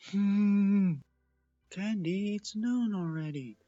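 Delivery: high, chirpy little sister; little filly voice. Acted. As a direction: wake your sleepy sister up. Little sisters wake her.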